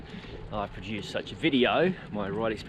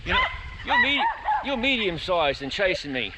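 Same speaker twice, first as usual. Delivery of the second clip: excited to chasing dog; 10 semitones higher, 4 dB louder than usual. Real, not acted.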